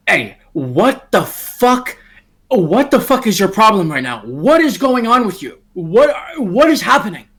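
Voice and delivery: annoyed confrontation. Acted. Billy confronts Eddie.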